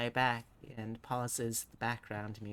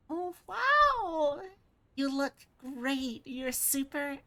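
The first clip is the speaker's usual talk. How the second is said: high, loud burst of delight that slows into praise; gushing delight; 12 semitones higher, 5 dB louder, slower than usual. Acted. Naomi admiring Leo's new body, high gushing delight. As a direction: squeal the compliment.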